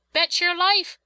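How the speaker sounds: put-on high, loud boyish outburst; eager cry. A narrator's reading. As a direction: cry it out heartily. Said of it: "cried Clem".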